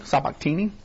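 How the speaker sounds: "Sabachthani" tried as sah-bok-TEE-nee, questioning rise; tentative pronunciation. Real, not acted. Teacher retrying a hard Bible word, "Sabachthani" as sabok-TEE-nee, tentative pronunciation. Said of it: "the word you could not pronounce".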